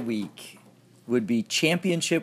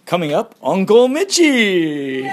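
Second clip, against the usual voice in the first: calling out; 4 semitones higher, 5 dB louder than usual. Real, not acted. Calling across the room.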